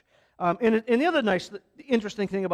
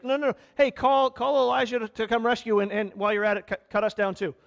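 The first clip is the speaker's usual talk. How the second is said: higher, jeering no, no, no; mocking taunt; 3 semitones higher than usual. Thieves on the crosses mock Jesus, jeering a little higher. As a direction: taunt him like a sneering thief. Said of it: "they're mocking Jesus".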